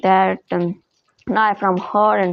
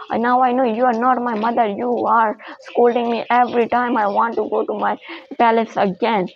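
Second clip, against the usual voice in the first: put-on fast, raised-voice defiance from the girl; defiant girl; faster than usual. Girl tells false mother she is not her mother, fast and defiant. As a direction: rattle it off as the girl stands up to her.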